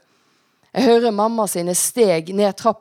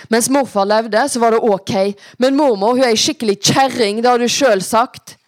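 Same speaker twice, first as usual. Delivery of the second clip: put-on louder, higher teenage argument; indignant, raised-voice objection; heated protest; 4 semitones higher, 6 dB louder than usual. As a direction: argue back hard at mother. Acted quarrel, daughter protests to mother.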